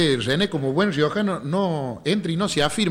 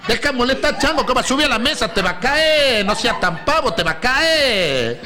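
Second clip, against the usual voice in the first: much higher, quick scolding mother's voice; 8 semitones higher than usual. Retold or imitated. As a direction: nag the boy like a worried mom. Mother scolding her kid. (la madre reta al changuito, voz mucho más aguda)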